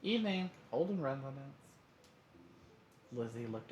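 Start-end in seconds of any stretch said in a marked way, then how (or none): 0.0-1.6 warm, higher-pitched phone greeting; lifted, louder hello in a warm voice. A narrator's reading. Dad answering the home phone, warm. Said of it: "Mister Holden's warm voice".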